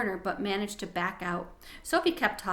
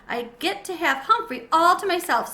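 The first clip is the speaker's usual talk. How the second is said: put-on higher, louder, thrilled little girl; excited girl; 7 semitones higher, 7 dB louder than usual. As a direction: boast it with glee. Child gloating to friend.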